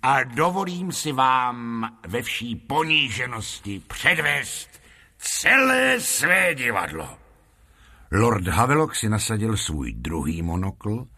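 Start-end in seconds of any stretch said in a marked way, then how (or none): 0.0-7.2 lightly voiced humble flattery, words drawn out; bow and scrape, then build to the announcement; obsequious showman. Lotrando humbly offers the lord a show, obsequious showman.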